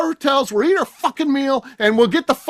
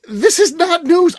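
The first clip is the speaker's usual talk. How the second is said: laughing; 4 semitones higher, 4 dB louder, slower than usual. Real, not acted. Laughing at the obvious.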